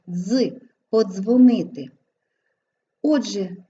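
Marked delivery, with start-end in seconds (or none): 0.1-1.9 "подзвонити" with дз as a single dz; fuse д and з in "подзвонити"; dz as one sound. Shown as a demonstration. Teacher showing дз in the root, one sound. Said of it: "вимовляється як один звук".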